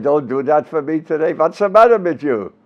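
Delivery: put-on father's Yiddish-accented English; Jewish accent. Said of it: "English with a Jewish accent".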